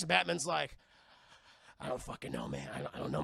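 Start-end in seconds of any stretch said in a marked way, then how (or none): 1.8-3.2 much lower, softer bewildered voice; dazed mumble. Retold or imitated. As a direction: mumble like a confused hero. Batman dazed reply.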